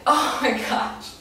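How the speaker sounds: gasping laugh through words; breathless laugh. Real, not acted. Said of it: "I'm so out of breath".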